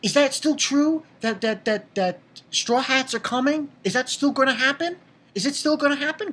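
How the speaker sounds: mildly acted childlike worry; imitated crying children. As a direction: plead like upset kids, voice lifted. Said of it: "and they're crying".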